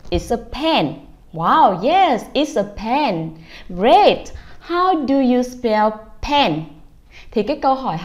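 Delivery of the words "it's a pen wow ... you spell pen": put-on bright, upbeat parent quizzing a child; mother cheering her son on; cheery parent. Mother quizzing son Andy about a pen, upbeat. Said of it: "Miss Thảo sẽ hỏi là".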